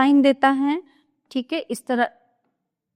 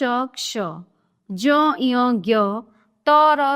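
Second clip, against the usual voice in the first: ordinary talk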